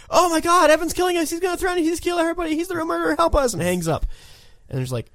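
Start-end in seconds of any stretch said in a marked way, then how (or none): 0.1-3.5 high, frantic fake distress call; mock panic. Franklin fakes panic to the police on the phone. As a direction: ham up a terrified caller.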